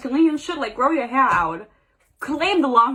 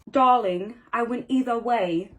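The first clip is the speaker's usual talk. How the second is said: put-on British accent, lightly done. Reader guessing how Hades talks, light British accent. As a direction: try a Love Island British voice. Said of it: "I think he has a British accent".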